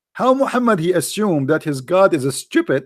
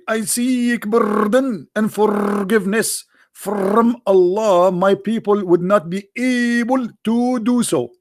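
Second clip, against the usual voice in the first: slow, higher mock plea; mock pleading prophet voice; 4 semitones higher, slower than usual. Preacher mocking the prophet begging Allah, in a slow high whine.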